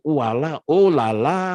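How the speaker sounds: high, expressive French interjection; lively French-style "oh la la"; French exclamation. Shown as a demonstration. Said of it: "itu ekspresi orang Prancis itu gitu".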